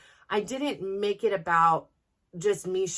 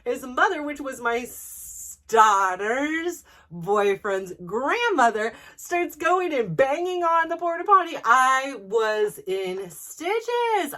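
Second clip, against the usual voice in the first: higher and louder, slowed by laughter; laughing while telling; 6 semitones higher, 5 dB louder, slower than usual. Real, not acted. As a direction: barely get the story out for laughing. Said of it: "I'm laughing so hard".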